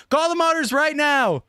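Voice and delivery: high-pitched, excited order; urgent call. Real, not acted. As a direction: call it out like it can't wait. Urgent repeat, calling out in excitement.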